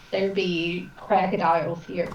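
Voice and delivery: bad, slow Australian accent. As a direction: ham up an awful Australian accent. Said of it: "In my most awful Australian accent ever".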